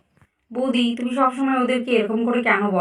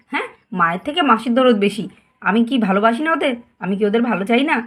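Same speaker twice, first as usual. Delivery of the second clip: angry mother. Acted. Mother scolding husband over spoiling.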